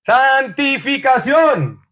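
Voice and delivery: santificación stretched slow and falling; drawn-out answer. Shown as a demonstration. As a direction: draw out santificación slowly to answer. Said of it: "¿A qué nos llamó Dios?". (santificación alargada y lenta)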